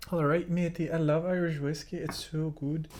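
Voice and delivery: put-on a light, playful stab at an Irish accent; half-hearted Irish accent, out of practice. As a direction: toast the whiskey in a cheerful mock Irish accent. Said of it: "Sorry for that Irish accent".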